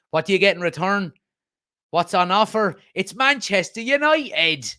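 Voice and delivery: put-on lightly done Dublin accent for a football kit advert. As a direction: read the pitch like a Dublin hard man, rising to a big finish. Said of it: "that was more of a Dublin accent".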